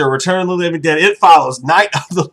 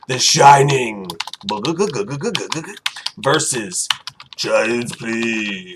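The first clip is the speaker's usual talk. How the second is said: announcer; 9 semitones lower, 6 dB quieter, much slower than usual. Acted. Announces the matchup slowly.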